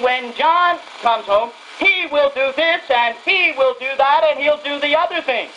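mother still waiting for her absent son, wistful; mother's wistful talk. Retold or imitated. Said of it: "she kept saying".

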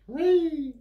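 high, slow delighted whee; gleeful cheer. Real, not acted. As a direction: sing out the whee with glee. Cheering for Ainsley's soup.

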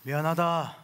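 mocking apology. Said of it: "조롱 사과".

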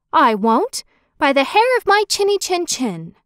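lightly voiced defiant little pig, lilting refusal. A narrator's reading. Pig answers the wolf at the door, lightly voiced defiant piglet.

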